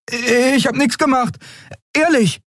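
very high, protesting voice; innocent Miko. Acted. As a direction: insist on your innocence. Miko beteuert Unschuld. (sehr hohe, unschuldig beteuernde Stimme)

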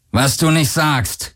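slow, dry growl at him; sarcastic growl. A narrator's reading. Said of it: "knurrte Akina". (langsam und knurrend, sarkastisch)

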